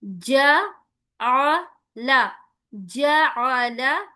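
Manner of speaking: "जाअला" in slow, even, short open syllables; correct measured reading. Shown as a demonstration. Teacher modelling "जाअला" for students, evenly measured. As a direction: give each syllable of "जाअला" equal weight. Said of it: "इसको मारूफ आवाज के साथ हमें पढ़ना है".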